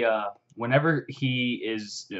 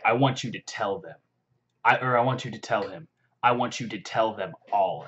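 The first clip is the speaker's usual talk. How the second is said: deliberate, contained menace; badass threat. Hero sending the orc off as messenger, coolly menacing. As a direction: lay down the warning firmly, word by word. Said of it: "it's just so badass".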